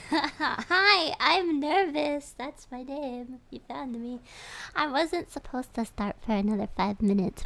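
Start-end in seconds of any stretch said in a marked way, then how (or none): 0.1-2.3 laughing through a slow, loud hello; flustered, laughing intro; nervous laugh. Real, not acted. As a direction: giggle out the name.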